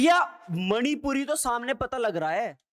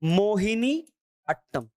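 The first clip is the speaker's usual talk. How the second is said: slow repeat; slower than usual. Shown as a demonstration. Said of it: "मैं का मतलब है मोहिनी अट्टम".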